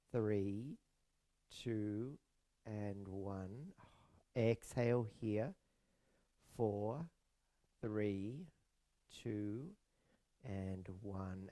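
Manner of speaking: soft, evenly spaced counting with gentle lifts; measured, soothing breathwork guidance; guided breathing count. Acted. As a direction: pace the breath calmly, leaving space between counts.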